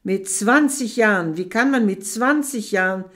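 loud furious shouting; enraged tirade. Acted. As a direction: rage at her disbelievingly. Shaking her, raging.

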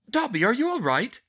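high, loud worried question; frantic. A narrator's reading. Girl to injured elf, frantic concern. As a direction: call out in alarm to check on him. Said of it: "she said frantically".

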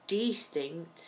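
distinct split carefully, first syllable stressed as DEE; distinct with a long EE, rising uncertainly; careful second try. Shown as a demonstration. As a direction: say distinct as DEE-stinct, testing it. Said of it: "is that right?".

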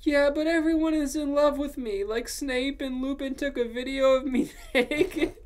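high, loud whine cracking into laughter; mock angry shouting. A narrator's reading. Ebony complaining to Draco, high angry whine breaking up. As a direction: protest loudly, then lose it laughing. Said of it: "I shouted angrily".

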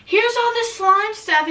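high, slow quoted friend voice; lightly voiced friend handing over slime; imitating a friend.

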